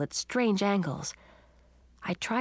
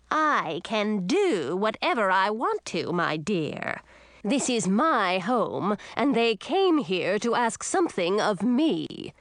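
imperious sea witch; 3 semitones higher than usual. Acted. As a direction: lay down the law, slow on home. Witch asserts authority.

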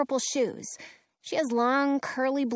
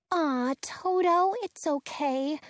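cooing; 5 semitones higher, slower than usual. Acted. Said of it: "Dorothy coos to him".

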